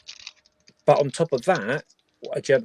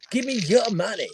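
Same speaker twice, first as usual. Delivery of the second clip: put-on Irish accent; 12 semitones higher than usual. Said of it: "I can't do Irish accent".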